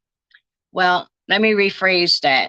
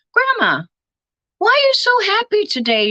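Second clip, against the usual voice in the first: put-on child's voice; 12 semitones higher than usual. Child grandson asking grandma.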